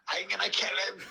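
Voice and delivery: high, loud, half-laughing mock fury; fuming threat. Liam, finding his bag covered in sick, in loud mock fury. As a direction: blurt it like a man who just found sick on his jacket. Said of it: "Liam was fuming".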